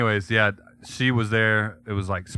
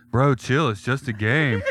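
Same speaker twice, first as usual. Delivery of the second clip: frat bro; 3 semitones higher, slower than usual. Retold or imitated. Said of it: "they were like".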